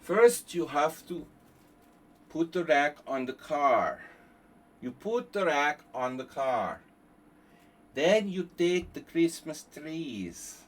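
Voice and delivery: lightly hammed demo voice; mock instructor voice. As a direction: play the patronising how-to narrator.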